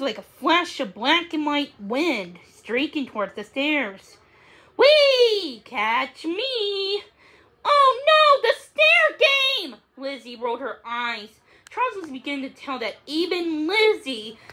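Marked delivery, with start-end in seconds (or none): 4.8-7.0 high, gleeful kitten squeal; playful kitten. Acted. Max the kitten plays. 7.6-9.8 high, hammed-up wail of dismay; mock dismay. Lizzie groans at the game.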